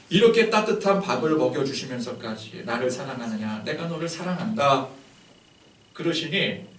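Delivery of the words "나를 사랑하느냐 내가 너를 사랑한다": gentle loving question. Retold or imitated. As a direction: speak it as forgiving love. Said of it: "마음이 하염없이 녹아내리는".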